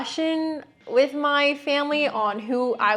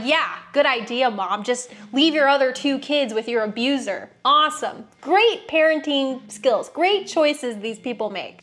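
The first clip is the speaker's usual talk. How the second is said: sarcastic thoughts. Retold or imitated. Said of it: "in my head, I'm like".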